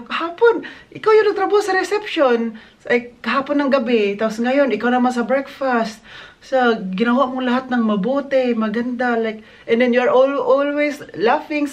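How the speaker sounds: imitating the guest. Guest praising her, quoted. (ginagaya ang bisita, mas mataas ang boses)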